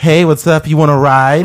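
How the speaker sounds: hammed-up pickup guy calling out to a woman; smooth pickup line.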